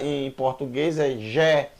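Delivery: Gé dito com som de J, como em gente; o Gé do português, com J. Shown as a demonstration. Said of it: "G mais E em hebra". (Gé com som de J)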